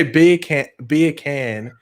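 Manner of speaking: demonstrating "beer can" in a British accent; careful British-accented "beer can". Shown as a demonstration. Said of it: "British accent".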